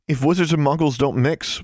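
mock his words in fury; furious echo of his rule; angry retort. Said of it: "Alexandra asked angrily".

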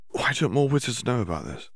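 lightly voiced eager schoolgirl, probing; curious Hermione. A narrator's reading. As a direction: Hermione haltingly asking the house elf a question. Hermione asking.

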